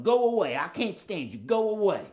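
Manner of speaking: dog character shooing intruders; indignant puppet dog. Pretend. Voices Jim Dog puppet.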